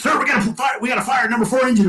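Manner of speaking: high, urgent mock alarm; retold panicked report. Crewman reports engine fire to his sir, retold panic.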